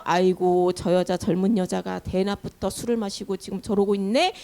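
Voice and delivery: low-pitched tutting aside, lightly acted; disapproving priest's thought. Priest thinking the praying woman is drunk, low disapproving aside. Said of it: "라고 생각을 한 거예요".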